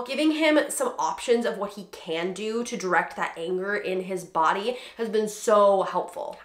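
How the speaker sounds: ordinary talk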